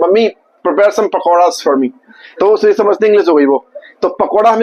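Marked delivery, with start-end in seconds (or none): 0.0-1.9 slow mock Hinglish. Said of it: "तो लोग ऐसे बोलते हैं कि".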